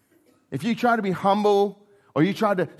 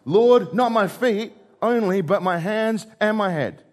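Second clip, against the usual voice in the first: eager reversal; 4 semitones higher, 3 dB louder than usual. Retold or imitated. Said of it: "a quick flip of emotions".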